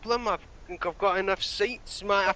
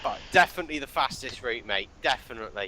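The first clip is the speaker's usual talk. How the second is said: eager compliance; 7 semitones lower, faster than usual. Acted. Driver caves to intimidation.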